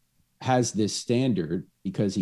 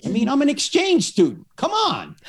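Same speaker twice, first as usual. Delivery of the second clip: laughing daughter; 14 semitones higher, 4 dB louder than usual. Pretend. Playful aside as the daughter.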